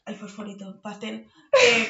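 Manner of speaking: words squeezed out through laughter; giggling helplessly while describing the neon pens; laughing. Real, not acted. Describing her friend's stationery, laughing through it.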